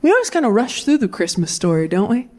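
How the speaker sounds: pastor musing to the congregation; lightly voiced pastor. Dad as preacher, a touch of sermon tone. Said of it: "He came out, he goes".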